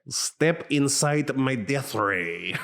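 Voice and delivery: slow, failed German accent, barely there; a weak cartoon mad scientist try. Shown as a demonstration. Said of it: "That's not German at all".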